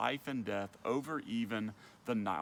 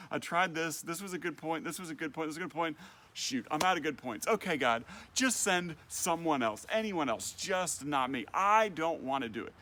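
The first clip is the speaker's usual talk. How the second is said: growing exasperation, getting louder toward the end; frustration building; 3 semitones higher, 3 dB louder than usual. Acted. Moses pleading with God to send someone else, mounting frustration. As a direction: let each repeat pile up until he gives up. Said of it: "hear Moses' frustration building".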